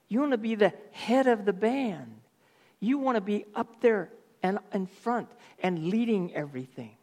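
jab each "you want" at Korah; accusing Moses. Acted.

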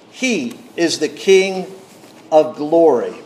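measured, reverent psalm reading; a pastor reading the psalm to the congregation; scripture reading. Acted. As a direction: read the psalm aloud with gravity, letting each line settle. Reads Psalm 24 aloud.

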